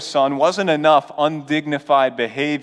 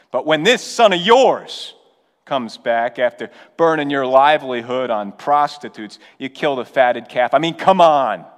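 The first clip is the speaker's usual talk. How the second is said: seething. Retold or imitated. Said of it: "you can hear him seething".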